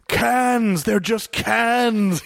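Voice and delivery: slow, drawn-out "cans"; mock Keanu line; Keanu Reeves impression. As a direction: stretch out "they're just cans" like Keanu. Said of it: "making fun of Keanu Reeves".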